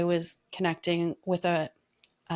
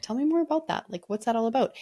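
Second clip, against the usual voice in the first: higher-pitched, curious questioning; 4 semitones higher, faster than usual. Retold or imitated. Asking a friend about his mantra, curious. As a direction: ask with open curiosity. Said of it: "luckily I stayed curious".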